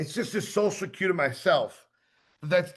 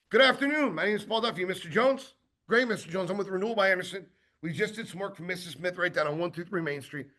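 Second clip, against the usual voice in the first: carrying sales voice; faster than usual. Shown as a demonstration. Salesman greets a homeowner at the door, projected and confident. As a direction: carry your voice so they can't cut in. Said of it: "This is the way that I speak to customers".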